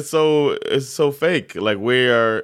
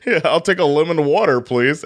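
higher announcer tone for a drink order; mock broadcast voice; 6 semitones higher than usual. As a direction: order like a sportscaster on air. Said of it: "it's my broadcast voice".

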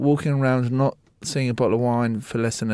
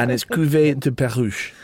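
put-on French accent. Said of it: "your French accent would be better than that".

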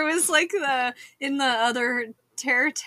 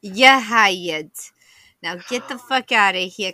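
barked order, much louder; louder angry order; 8 dB louder than usual. Acted. Sheriff ordering the fired deputy out, louder angry yell. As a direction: throw him out with a loud snap.

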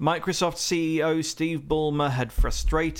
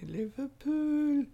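put-on slow, drawn-out Liverpool accent, pitched up; reluctant, half-hearted Scouse accent on a dare; 12 semitones higher, 4 dB quieter, much slower than usual. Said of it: "Sound like a really far away Liverpool person".

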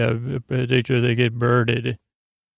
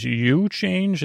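higher-pitched questioning retort; incredulous echo; 6 semitones higher than usual. Retold or imitated. Doctor challenging those who want change, incredulous. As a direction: throw it back as a surprised question.

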